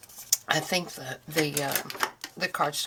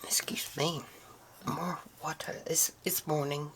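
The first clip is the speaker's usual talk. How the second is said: croaky voice. Real, not acted. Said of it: "Oh, crone, croaky voice".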